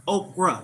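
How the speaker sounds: okra ending in a plain "ruh"; two slow syllables, okra as OAK-ruh. Shown as a demonstration. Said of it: "not okra".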